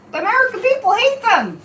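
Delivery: a passionate rally-style cry; emphatic declaration. Real, not acted. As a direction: drive the point home to the crowd. The point at its peak.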